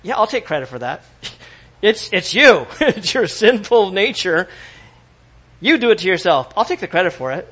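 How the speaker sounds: a smug devil gloating over the blame, laughing; imagined devil. Retold or imitated. Preacher voicing the devil who laughs at human blame, smug and loud. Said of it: "The devil's like".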